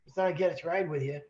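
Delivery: high, stammering mock shock; retelling the stowaway caught in the boat, stammering high and shocked. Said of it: "he looks up, shocked".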